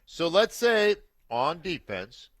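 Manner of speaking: talking through a tissue-stuffed nose; nose plugged with tissue, muffled; blocked nose. Real, not acted. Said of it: "I've got Kleenex stuffed up my nose".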